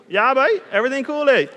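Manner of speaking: mock Bahamian buddy talk; Bahamian accent. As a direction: slip cheekily into a Bahamian greeting. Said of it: "I would talk like that".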